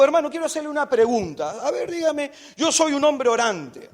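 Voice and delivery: put-on boyfriend's pitch. Boyfriend introducing himself to the preacher, lightly imitated.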